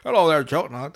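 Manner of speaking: badly faked cartoon cook greeting; garbled, half-hearted attempt at a character voice; Chef. Cook greeting kids at the counter, worse impression. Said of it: "That sounded even worse".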